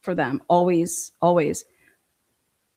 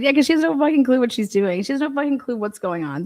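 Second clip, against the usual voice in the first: heated rant; 5 semitones higher than usual. Real, not acted. Ranting about the reporter.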